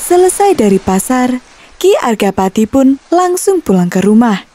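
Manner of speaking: usual speaking voice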